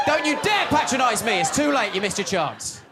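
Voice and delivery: high, indignant mock outrage; hammed-up crowd telling the comic off.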